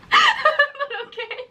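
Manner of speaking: high, slow laughing shrug; laughing okay. Real, not acted. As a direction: giggle and give up. Laughing resignation.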